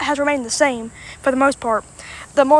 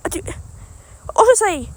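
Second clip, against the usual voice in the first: drawn-out give-up; 7 semitones higher, much slower than usual. Real, not acted. Stumbling over a place name.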